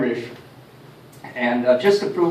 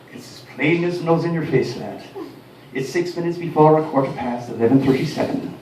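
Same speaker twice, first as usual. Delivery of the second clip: Irish brogue. Retold or imitated. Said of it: "inimitable Irish fashion".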